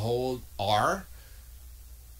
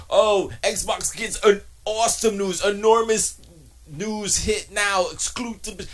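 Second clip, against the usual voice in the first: higher, slow hammed-up headline hype; mock clickbait hype; 8 semitones higher, 5 dB louder, slower than usual. Mocking a YouTuber's video headlines, hammed-up and higher. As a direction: oversell it like a clickbait title. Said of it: "his headlines on his videos".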